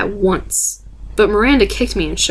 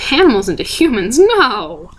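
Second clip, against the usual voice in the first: contemptuous; 3 semitones higher, 4 dB louder than usual. Acted. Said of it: "laughed with contempt again".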